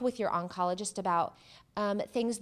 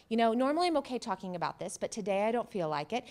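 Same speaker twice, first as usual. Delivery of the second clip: pointed refusal. Shown as a demonstration. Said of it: "Boom, throw it back".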